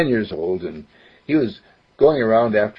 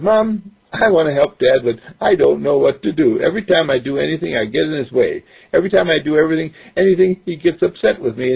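put-on higher boy's voice, eager; young boy voice; 6 semitones higher, faster than usual. Boy explains he only got in dad's way, higher boyish voice. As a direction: voice a ten-year-old who wants to help. Mark to mom.

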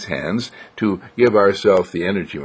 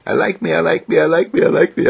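lilting affirmation; 7 semitones higher, faster than usual. Shown as a demonstration. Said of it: "and say".

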